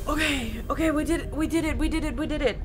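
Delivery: real excitement. Real, not acted. Gamer celebrating a lucky dice roll, thrilled and loud. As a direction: cheer it out like you just won the roll.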